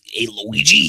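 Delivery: lightly voiced cartoon plumber, loud; Hotel Mario. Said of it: "Sonic's gonna be Hotel Mario".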